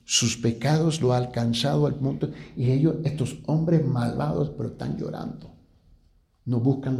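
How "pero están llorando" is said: whispered "pero están llorando"; hushed. Acted. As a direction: drop to a whisper. Criminals weeping at night.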